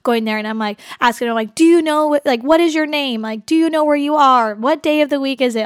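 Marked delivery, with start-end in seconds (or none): 1.5-5.6 robotic. Retold or imitated. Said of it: "All the questions".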